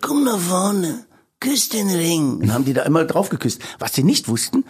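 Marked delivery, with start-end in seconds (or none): 0.0-2.4 slow, high godfather command; Mafia godfather voice. Retold or imitated. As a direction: drawl slowly like a Mafia boss. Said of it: "Hab ich immer Leute aufgefordert".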